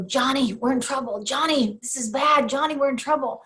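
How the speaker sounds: retold urgent warning, punching each short phrase; alarmed workers. Two workers warning their boss of trouble, mock alarm.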